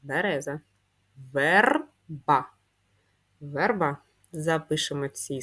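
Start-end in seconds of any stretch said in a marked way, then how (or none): 1.3-2.5 syllable reading. Shown as a demonstration. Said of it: "прочитаємо їх".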